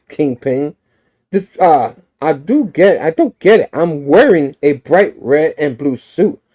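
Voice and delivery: mildly miffed superhero; a little offended. Acted. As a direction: protest with a touch of hurt pride. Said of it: "Spider-Man gets a little offended".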